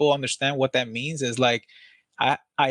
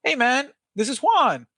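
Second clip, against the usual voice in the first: slow, high, over-keen caller; high-pitched excitement; 10 semitones higher than usual. Shown as a demonstration. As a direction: greet them with stretched-out, high-voiced enthusiasm. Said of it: "like, high pitch, high voice".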